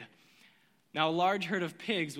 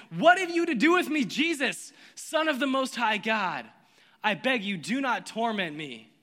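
raised, higher possessed cry that fades to pleading; loud cry; 3 semitones higher, 5 dB louder than usual. A narrator's reading. The possessed man crying out loudly to Jesus. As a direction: cry out loud and high, then beg. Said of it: "he cried out and fell down before him and said with a loud voice".

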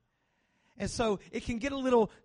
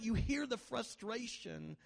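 normal talking voice

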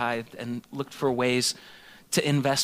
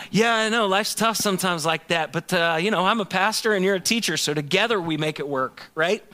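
breezy brush-off; 4 semitones higher than usual. Retold or imitated. Pastor voicing his dismissive reply.

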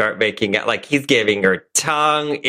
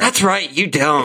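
angry Dylan; 5 semitones higher than usual. Acted. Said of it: "He is gonna be Dylan McCain".

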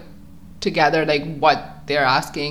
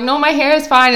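higher, louder retold brush-off; mock protest; 8 semitones higher, 5 dB louder than usual. Shopper turning down a mall salesperson, high protesting voice. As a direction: fend off the seller in a raised voice.

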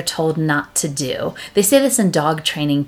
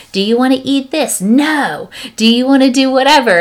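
imitating an asking parent; 6 semitones higher, 5 dB louder than usual. Parent asking toddler questions.

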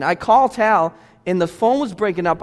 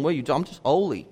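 softer, lower, dreamy mock voice; mock holy airhead; 5 semitones lower, 6 dB quieter, faster than usual. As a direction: parody a floaty mystic, quietly. Mocking airy spiritual people.

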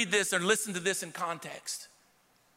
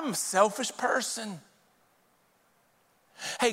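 humble surrendered prayer; 2 semitones lower than usual. Shown as a demonstration. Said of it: "how about you and I say".

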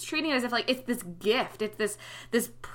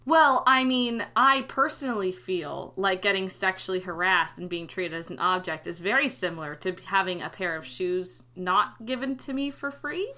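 dry, mock-earnest sarcasm, rising at the end; deadpan sarcasm; sarcastic. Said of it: "is that, is that sarcasm?".

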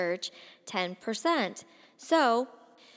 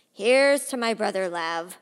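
loud, raised toast to the hall; 9 dB louder than usual. Acted. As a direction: project it to the whole room. Drunk toast to the room.

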